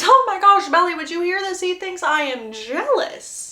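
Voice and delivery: high, loud, incredulous disbelief; exasperated scoff. Acted. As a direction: scoff at how absurd he sounds. Brother scoffs to Belly mid-fight.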